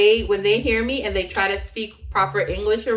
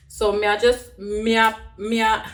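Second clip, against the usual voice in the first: halting Jamaican Patois attempt. Shown as a demonstration. Vlogger attempting patois for laughs, halting patois accent. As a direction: try starting a sentence in patois, restarting. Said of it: "I'll talk patois".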